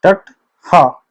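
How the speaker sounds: टट हा drawn out syllable by syllable; slow spelling out. Shown as a demonstration. Teacher spelling a Kurukh word for students, slow. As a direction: spell टट हा out slowly for the learners. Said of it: "खा और हा के बीच में हा".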